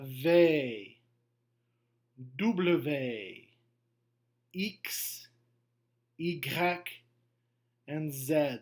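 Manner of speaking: letters "V", "W", "X", "Y", "Z" named the French way; French letter names. Shown as a demonstration. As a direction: recite the alphabet in French. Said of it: "our French pronunciations of the letter".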